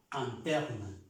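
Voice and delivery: Anterna begun with a, not in; French in as a. Shown as a demonstration. Teacher repeats anterna for students. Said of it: "No se pronuncia in, sino a".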